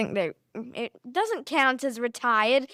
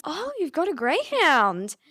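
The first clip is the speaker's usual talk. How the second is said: swooping, mock-suspicious stranger; retold suspicion with exaggerated swoops in pitch; 3 semitones higher, 3 dB louder than usual. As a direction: imitate a wary, nosy lady. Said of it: "in some sort of sp-, suspicious tone".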